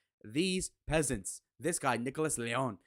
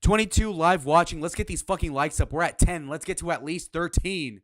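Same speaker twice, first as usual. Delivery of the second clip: loud, raised-pitch call-out; rallying viewers; 4 semitones higher, 7 dB louder than usual. Real, not acted. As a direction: push the live audience for likes, loudly. Streamer rallying viewers for likes.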